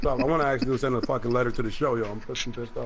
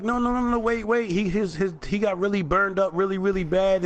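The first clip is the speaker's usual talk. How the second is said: put-on a lightly raised, higher girl's voice pleading; girl's protest; 5 semitones higher than usual. Retelling the girl who begged him to wait, a mild higher plead. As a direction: mimic her begging you to wait. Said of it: "she's like".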